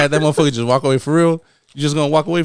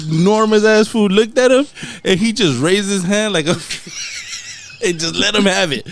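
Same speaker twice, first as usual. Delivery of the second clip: louder, higher, building wrestling hype; hyped retelling; 5 semitones higher, 3 dB louder than usual. Retold or imitated. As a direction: tell it like a ringside announcer.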